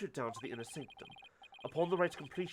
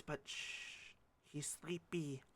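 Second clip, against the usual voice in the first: hushed whisper to a sleeping pet; 12 dB quieter, much slower than usual. Real, not acted. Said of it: "don't wake him up".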